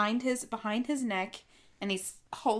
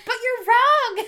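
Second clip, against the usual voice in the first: laughing; 13 semitones higher, 10 dB louder than usual. Retold or imitated. Retold teasing, laughing.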